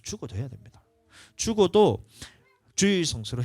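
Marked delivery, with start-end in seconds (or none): 1.4-2.0 죽어도 punched higher and louder; stress on 죽어도. Real, not acted. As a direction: hit 죽어도 hard and high. Emphatic repeat in sermon.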